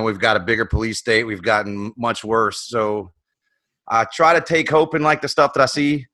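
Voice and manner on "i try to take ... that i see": breathless from running; puffing between words; out of breath. Real, not acted. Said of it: "I'm out of breath from running".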